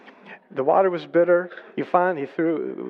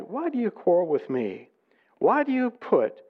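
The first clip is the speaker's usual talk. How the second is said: questioning reproach, rising higher; exasperated challenge; 4 semitones higher than usual. Acted. Moses answers the quarreling people, exasperated challenge. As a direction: challenge them with mounting pitch.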